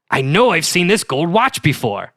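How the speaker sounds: put-on musing detective, Boston accent. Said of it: "my killer Boston accent".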